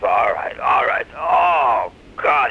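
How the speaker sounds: drawn-out disgusted surrender; mock dread with a long, slow "oh"; reluctant giving in. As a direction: give in as if it's revolting. Monkey gives in with disgust.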